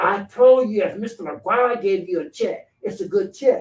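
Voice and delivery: mock stubborn, loud, insistent delivery. Retelling a bank man's repeated answer on the phone: imitating a louder voice. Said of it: "this time louder".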